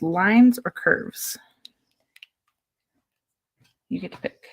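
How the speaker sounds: whispering. Real, not acted. Offering child a choice, whispered.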